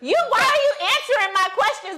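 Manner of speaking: high, rapid, agitated protest; yelling. Real, not acted. Challenging the partner's questions, yelling. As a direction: fire it back high and fast. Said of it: "'Cause you yelling right now".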